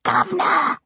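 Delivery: high cockney yell across the street; calling out Governor. A narrator's reading. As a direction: shout to catch his master over traffic. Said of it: "shrill, ungenteel accents of his tiger".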